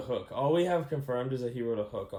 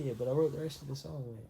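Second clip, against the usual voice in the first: put-on Australian accent; 2 semitones higher, 4 dB quieter than usual. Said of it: "I'm doing an Australian accent".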